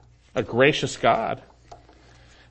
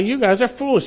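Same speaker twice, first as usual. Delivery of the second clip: blunt rebuke; 10 semitones higher, 3 dB louder than usual. Retold or imitated. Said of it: "And he says".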